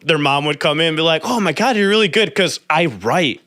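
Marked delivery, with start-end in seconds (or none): 1.2-2.3 higher-pitched imitation of an amazed mom; impressed mom. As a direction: gush like a visiting mom.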